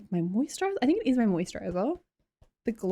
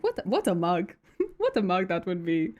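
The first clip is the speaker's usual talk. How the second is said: put-on rough try at a Kenyan accent. Streamer trying out the donation voice, mock Kenyan accent. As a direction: imitate a Kenyan accent, playfully. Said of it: "like a Kenyan accent or something".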